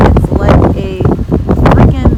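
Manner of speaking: fast, loud, exasperated; loud over the wind. Real, not acted. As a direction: shout it over the storm. Shouting over snowstorm wind.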